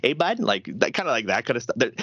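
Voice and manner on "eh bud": quick Eastern Canadian tag question; Eastern Canadian accent. Acted. Showing how Eastern Canadians talk, Eastern Canadian accent. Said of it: "far Eastern Canadian there".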